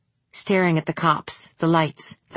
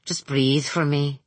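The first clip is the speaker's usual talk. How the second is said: put-on light Indian accent; 2 semitones lower, slower than usual. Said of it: "She said it in a light Indian accent".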